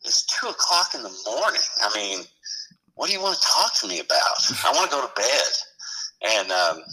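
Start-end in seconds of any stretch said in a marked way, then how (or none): 0.0-5.5 higher, whiny late-night protest; grumpy complaint. Retold or imitated. Fireman to his lieutenant, higher, mildly whiny protest. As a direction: complain about being woken at two am. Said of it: "I'm like".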